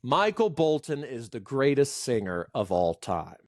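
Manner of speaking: firm claim stepping down to "time"; falling inflection. Shown as a demonstration. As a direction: declare it, letting "all time" fall. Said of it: "it's that falling inflection".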